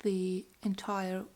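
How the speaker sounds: talking with a night guard in; slight lisp around a mouth guard. Real, not acted. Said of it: "I really have a lisp with this thing in".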